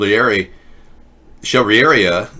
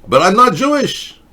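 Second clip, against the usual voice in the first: high put-on Jewish accent; 12 semitones higher, 4 dB louder than usual. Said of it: "could you do a Jewish voice?".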